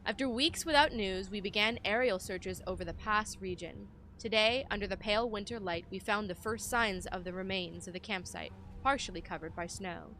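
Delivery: measured, solemn expedition narration; journal read-aloud. Acted. Player reading a searcher's account of the pass, solemn narration.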